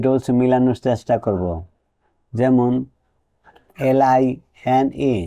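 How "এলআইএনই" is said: very slow, letter-by-letter spelling of এলআইএনই. Shown as a demonstration. Teacher spells a word for students, drawn out letter by letter. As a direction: stretch out each letter of এলআইএনই. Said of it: "লাইন".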